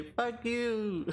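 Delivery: high-pitched mimicked jeer; playful high imitation of defiance; imitating player's taunt. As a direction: echo the insult in a high mock voice. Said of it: "And as you say".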